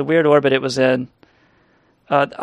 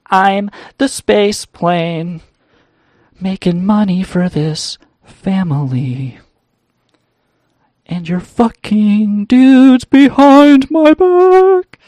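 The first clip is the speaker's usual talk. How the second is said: slow, much higher, louder yell; mock furious yell; 6 semitones higher, 6 dB louder, slower than usual. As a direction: bellow it out like a betrayed husband. Space plane yells at wife.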